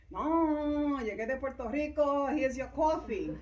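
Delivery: animated bilingual call, played for laughs; mock exuberant insistence. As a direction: imitate a friend proudly turning up with a gift. Acts out friend arriving with coffee.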